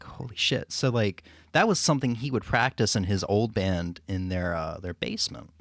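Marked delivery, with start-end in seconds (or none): 0.0-0.7 breathless whispered amazement; awed whisper. Retold or imitated. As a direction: whisper it in disbelief. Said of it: "so he was like".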